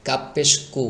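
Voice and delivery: কু with a light k, no echo; thin কাপ. Shown as a demonstration. Teacher contrasts with heavy letter, কু thin. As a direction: keep the k of কু thin and unforced. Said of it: "চিকন করে পড়তে হবে".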